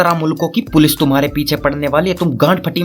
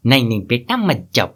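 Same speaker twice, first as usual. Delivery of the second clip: put-on lowered elderly plea; grandfather's voice; 4 semitones lower than usual. Grandfather tells grandson to stay, in a lowered old man's voice. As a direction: object in a low grandad voice. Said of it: "दादाजी की आवाज".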